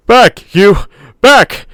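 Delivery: high, loud barked orders; commanding shout. A narrator's reading. Man edging to the trees shouting at the dinosaur, loud command. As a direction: drive it back with your voice. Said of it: "he shouted".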